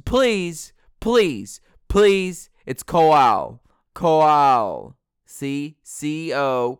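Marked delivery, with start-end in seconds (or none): 0.0-5.0 mock pleading. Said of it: "pleading for his name".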